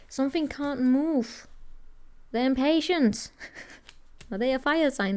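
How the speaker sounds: usual speaking voice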